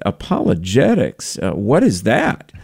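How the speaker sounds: mock bafflement with swooping pitch; puzzled questioning. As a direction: imitate someone stumped by an unfamiliar word. Puzzled man reacts to unfamiliar word.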